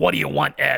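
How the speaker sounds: rough, gruff, creaky smoker's voice. A boss answers her employee's phone call, in a gruff smoker's voice. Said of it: "with her gruff smoker's voice".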